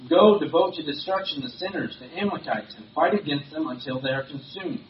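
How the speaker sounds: reading a reproach with rising force; stern prophetic rebuke. Acted. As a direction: confront the king, hitting the opening words hard. Samuel rebukes Saul in scripture reading.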